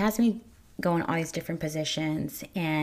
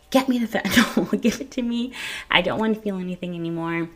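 mock desperate demand; 2 semitones higher, 4 dB louder than usual. Retold plea for pain relief.

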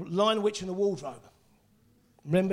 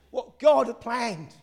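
slow, full-voiced preacher's declaration; emphatic proclamation; 4 semitones higher, 4 dB louder, much slower than usual. Real, not acted. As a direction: proclaim it slowly to the congregation. Proclaims line, later whispers it.

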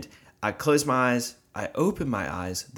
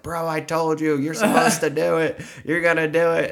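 louder and higher, like an I-told-you-so; emphatic insistence; 8 semitones higher, 6 dB louder than usual. Retold or imitated. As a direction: push it hard, playfully triumphant. Friend insisting he was right.

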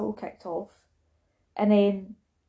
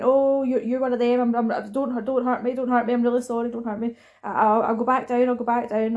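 mock American accent; 2 semitones higher than usual. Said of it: "and it's American accent".

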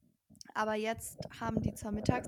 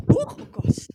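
loud startled gasp; 14 semitones higher, 15 dB louder, slower than usual. Real, not acted. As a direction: jump at the noise. Mikrofon knallt laut. (erschrocken, laut)

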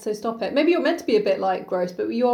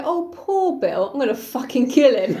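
laughing mock Alice. Friend mocking Alice's fake pity for Bill, laughing. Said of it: "I like that she's like".

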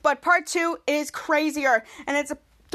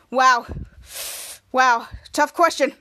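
mock wow; 3 semitones lower, slower than usual. Jasper weighing dog play against rescue, mock awe. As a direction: play up the fake dilemma. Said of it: "Jasper next to Schwartz says".

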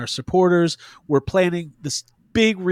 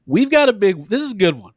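dopey goofball host voice; dumb voice. Pretend. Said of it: "why am I doing that dumb voice".

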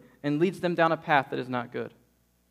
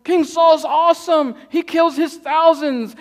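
much higher, louder, slow chanted cheer; crowd cheering; 10 semitones higher, 8 dB louder, slower than usual. Retold or imitated. People at the parade hailing King Saul, slow loud chant. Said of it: "They were going".

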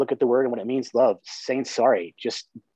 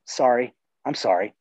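genuine apology; 2 semitones lower than usual. Shown as a demonstration. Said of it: "super powerful word if it's genuine".

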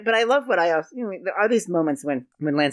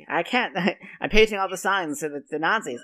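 laughing sign painter; 5 semitones higher, 4 dB louder than usual. Retold or imitated. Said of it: "And the guy's like".

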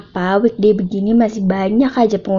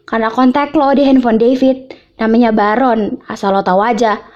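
curt; 2 semitones higher than usual. Acted. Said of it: "Gue menjawabnya dengan ketus".

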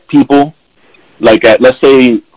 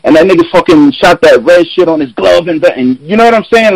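a touch higher, lightly voiced hyped movie fan; excited fan; 6 semitones higher than usual. Genuine friend gushing about Infinity War, mild excited retelling. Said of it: "then they're like".

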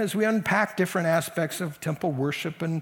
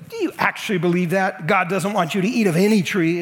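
incredulous question growing louder; exaggerated; 3 semitones higher, 6 dB louder than usual. Satan distorting God's command, exaggerated. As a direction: overstate it to sow doubt. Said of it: "It's all this exaggerated stuff".

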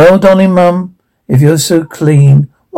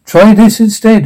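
yelling; 6 semitones higher than usual. Acted. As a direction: yell it at her. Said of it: "the prince yelled back".

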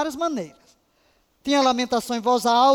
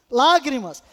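firm; 5 dB louder than usual. Shown as a demonstration.

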